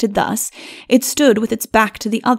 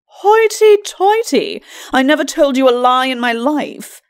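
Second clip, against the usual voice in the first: indignant lord; 5 semitones higher, 3 dB louder than usual. A narrator's reading. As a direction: bluster in offended pride.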